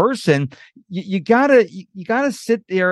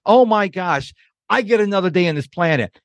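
delighted. Retold or imitated. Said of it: "you wake up every day and you're like".

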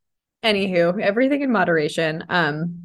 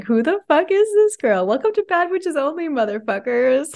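mock shout; 9 semitones higher than usual. Host imagines coworkers hearing her yell the intro. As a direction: belt it out like a brash host. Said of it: "they're like".

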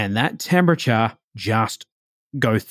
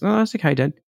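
understanding daughter; 5 semitones higher, faster than usual. Retold or imitated. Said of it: "she goes".

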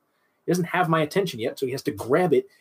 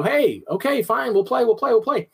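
giving in; 8 semitones higher than usual. Retold or imitated. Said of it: "and I go".

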